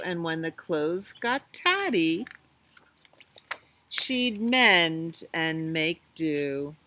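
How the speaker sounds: lilting storybook read-aloud; reading to children. Acted. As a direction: read it like bedtime story time for little kids.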